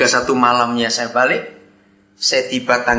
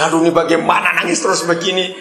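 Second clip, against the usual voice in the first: mildly flustered, hurried retold exclamation; 4 semitones higher, faster than usual. Visitor at a loss with crying widower, mildly flustered. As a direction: voice a quick, helpless worry, higher.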